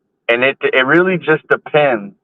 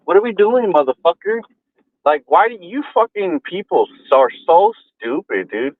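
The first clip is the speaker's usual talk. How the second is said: raised, heated rant at another driver; angry yelling; 3 semitones higher than usual. Real, not acted. Cursing at a driver who nearly hit him, furious.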